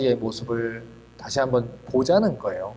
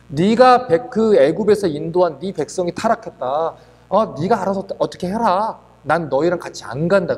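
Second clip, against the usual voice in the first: 화난 하나님 목소리로 꾸짖듯이; angry God voiced; 3 semitones higher than usual. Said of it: "하나님이 너무 화가 나신 거예요". (성난 하나님처럼 조금 세게)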